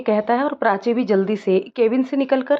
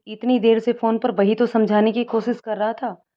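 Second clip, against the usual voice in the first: frowning annoyance. Acted. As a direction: vent about her, fed up. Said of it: "त्योरियां चढ़ाते हुए".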